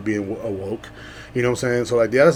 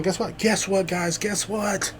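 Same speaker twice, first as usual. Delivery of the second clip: high, eager teasing call; high teaser before the whisper; teasing guess what; 7 semitones higher, 5 dB quieter, slower than usual. Acted. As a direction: dangle the news, eager and bouncy. Teasing build-up to big news.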